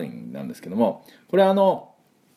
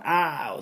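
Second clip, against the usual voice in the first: ow of pain; 7 semitones higher, 4 dB quieter than usual. Retold or imitated. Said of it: "ぶつかったりした時も".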